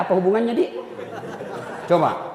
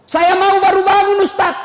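higher, louder whiny excuse; mock lazy congregant; 9 semitones higher, 4 dB louder than usual. Preacher mimics a worshipper excusing himself from night prayer, whiny. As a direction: play the excuse-making worshipper.

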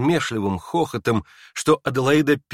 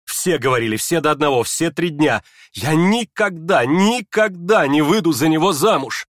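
high, loud insistent cry; shouting; 5 semitones higher, 4 dB louder than usual. Acted. Aglaya to everyone, desperate shout. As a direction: shout it out in despair. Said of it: "Прокричав это".

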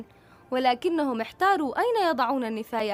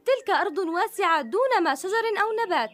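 excited; 6 semitones higher, 3 dB louder than usual. Acted. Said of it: "قالت زيتونة بحماس كبير".

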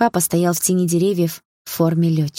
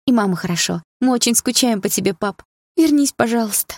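higher, plaintive begging; plaintive plea; 5 semitones higher than usual. Acted. Daughter begging her dead father to come back, plaintive. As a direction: beg him like a child. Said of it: "жалобно попросила я".

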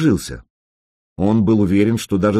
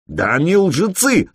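high raised shout; yelled accusation; 8 semitones higher than usual. A narrator's reading. Player yelling at the king about his guests, raised shout. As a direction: hurl it at them. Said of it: "заорал игрок".

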